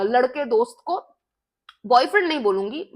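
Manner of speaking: normal talking voice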